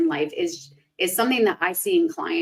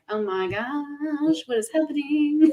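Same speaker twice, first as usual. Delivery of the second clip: overwhelmed gasp; 7 semitones higher, slower than usual. Retold or imitated. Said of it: "and I'm like".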